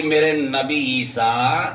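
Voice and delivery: stately acted summons from God; divine call. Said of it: "قدرت نے آواز دی".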